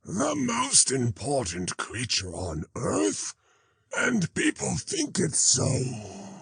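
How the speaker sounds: high, slow, furious dog voice; shrill with jealous rage; mad with envy. A narrator's reading. The fire dog mocks Zarathustra's words, high and envious. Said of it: "acted as if mad with envy".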